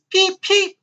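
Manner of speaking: very high, loud chick cheep; squeaky newborn bird peeps. Acted. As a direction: peep like a tiny chick crawling out. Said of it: "said the little one".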